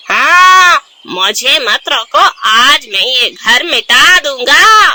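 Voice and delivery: slow, menacing threat; lightly voiced villain crow threatening; defiant crow villain. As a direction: growl out the threat to wreck the house. Kalu defies Gauri.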